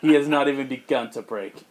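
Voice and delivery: laughing repeat of the villain line; amused, laughing; laughing through it. Retold or imitated. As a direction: giggle while quoting. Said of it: "Rock hard".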